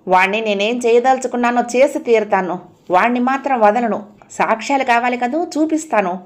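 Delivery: rising, clenched determination; a girl swearing revenge through gritted teeth. Acted. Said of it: "పళ్ళ బిగున అంది".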